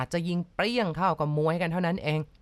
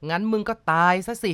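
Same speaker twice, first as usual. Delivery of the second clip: louder snarled threat; threatening bark; 5 dB louder than usual. Acted. Gunman barks a threat at the driver. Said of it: "เขาตะคอกแล้วก็จ้องปืนใส่ฉัน".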